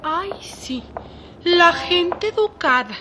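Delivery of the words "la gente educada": drawn-out sarcastic echo; mock her words slowly and snidely. Maid mocking Adela's manners, slow and sneering. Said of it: "¿Por qué lo dices con ese tonito?".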